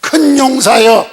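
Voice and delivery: high, loud, slow proclamation; angel's booming summons. Retold or imitated. Angel of the Lord appearing to Gideon, booming summons. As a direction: hail him grandly, stretching the words. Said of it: "기드온에게 여호와의 사자".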